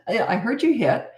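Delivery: calm discipline. Shown as a demonstration. Parent bringing up the hitting, calm and light. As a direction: raise it with the child without blame. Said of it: "I always sort of talk like this".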